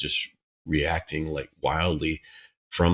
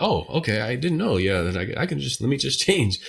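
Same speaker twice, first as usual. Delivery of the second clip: mock easy change; 6 semitones higher than usual. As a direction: play it as if change were effortless.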